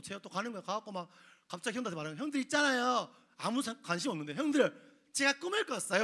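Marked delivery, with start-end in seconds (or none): 2.2-3.1 high, louder chirpy call to the brothers; eager little brother. Acted. Joseph eagerly calling his brothers, high and bright. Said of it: "이러는 거예요". 4.3-6.0 high, louder eager announcement; clueless bragging brother. Acted. Joseph boasting his dream to annoyed brothers, high and eager. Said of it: "이러는 거예요".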